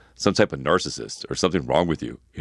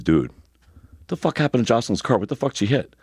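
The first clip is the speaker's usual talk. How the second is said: quoted car manager; 6 semitones higher than usual. Retold or imitated. Car dealership manager asking about the dented car, incredulous. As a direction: drag out the manager's disbelief.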